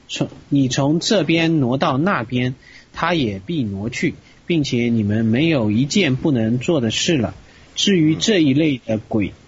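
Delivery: measured read-aloud delivery; scripture reading. Acted. Student reads a Gospel passage to the teacher, scripture reading.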